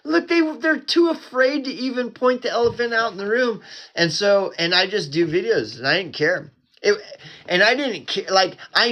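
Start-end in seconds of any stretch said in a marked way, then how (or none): 0.0-3.6 pissed-off rant. Retold or imitated. Ranting at sellout YouTubers in his old videos, pissed off. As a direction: replay how worked up he used to get. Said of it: "I would get pissed".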